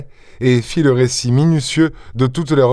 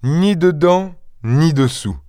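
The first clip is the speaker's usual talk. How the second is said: higher at first, amused; amused reply; 6 semitones higher, slower than usual. A narrator's reading. Stranger answering the Goussots, amused. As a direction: answer as if still tickled. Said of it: "qui riait toujours".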